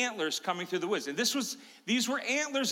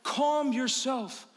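slow, solemn angelic proclamation; lightly voiced angel, slow and grand; slower than usual. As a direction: intone it like a heavenly messenger. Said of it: "An angel appears to me and says".

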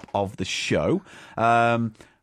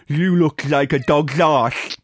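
voicing John Merrick; 2 semitones lower, 3 dB louder, slower than usual. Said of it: "would be like".

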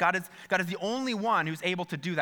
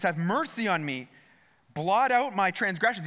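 urgent plea, lifting higher and louder; pleading; 4 semitones higher, 4 dB louder than usual. Acted. David pleads with God for forgiveness, urgent pleading. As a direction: read it as David begging, with building force. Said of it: "he just pleads with God".

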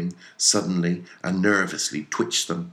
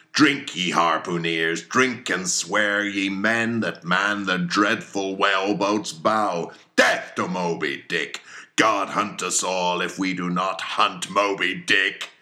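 rousing oath; 3 semitones higher, 5 dB louder than usual. Acted. Ahab's fervent oath toast.

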